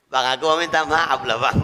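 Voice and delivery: imitating a wife apologizing through giggles; a half-joking sorry with laughter in it; laughing apology. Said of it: "minta maaf sambil ketawa". (minta maaf sambil tertawa)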